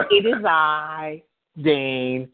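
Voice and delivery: slow, stately "It is I, Dane"; a mock-regal entrance, stretched slow; grand slow Dane impression. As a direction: announce yourself like royalty. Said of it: "repeats Dane bit".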